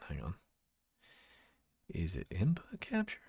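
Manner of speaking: whispered to himself, searching a menu. Real, not acted. Streamer hunting through settings, whispering. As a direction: breathe the question under your breath.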